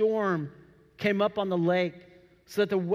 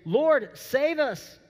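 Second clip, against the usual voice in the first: a mock panicked cry, higher and very slow; panicked plea; 6 semitones higher, much slower than usual. Disciples waking Jesus in the storm, a mock panicked cry. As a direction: cry out like sailors about to sink.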